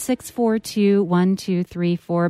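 lively, polished call-in invitation; measured presenter delivery into a break; radio host announcement. Acted. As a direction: read it to the listeners as a radio teaser.

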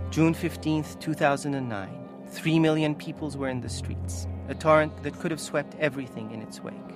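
measured, solemn reading aloud; story narration. A narrator's reading. Author narrating the protests and aftermath, solemn. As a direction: read it gravely, letting the end fall away. Reads own book aloud.

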